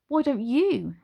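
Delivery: snapped. Acted. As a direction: bite the words off. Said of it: "she snapped".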